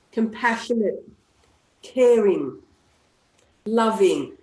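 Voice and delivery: slow paced positive affirmations; tapping session affirmations; affirmation script. Shown as a demonstration. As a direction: lead the group through affirmations.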